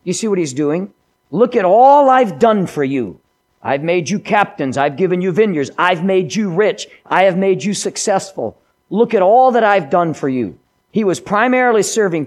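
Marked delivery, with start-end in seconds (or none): 1.3-10.6 proud, loud self-pitying king; voicing Saul. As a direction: boast it like a wounded king. Preacher voicing Saul's complaint.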